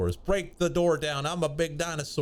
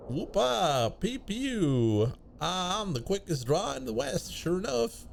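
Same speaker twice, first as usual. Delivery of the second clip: hammed-up, higher old cowpoke drawl; cowboy voice; 6 semitones higher than usual. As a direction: play a rowdy Wild West cowboy. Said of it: "Gabby doesn't talk like that".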